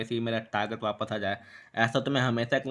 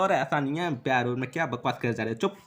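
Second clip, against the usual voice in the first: mild mock yell. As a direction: snap back indignantly, without full shouting. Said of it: "और चिल्ला के बोलता है".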